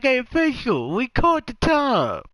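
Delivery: hollering at the refs in a mock panic; mock yell at refs. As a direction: player yelling at the officials, mock shout. Slay voiced yelling at refs.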